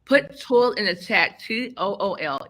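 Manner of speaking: slurred speech after dental work; speaking around a numb mouth; talking funny. Real, not acted. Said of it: "Yes, I'm talking funny. I had a, um, dental emergency".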